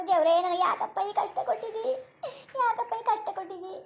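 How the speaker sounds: weep while begging God; crying prayer. Acted. Mother crying out to God over her hardship, sobbing. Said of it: "ಸುಮ್ಕಿರವ, ಅಳ್ಬೇಡ".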